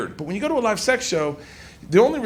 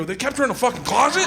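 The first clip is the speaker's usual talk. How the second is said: mock shock; 5 semitones higher, faster than usual. Retold shocked question.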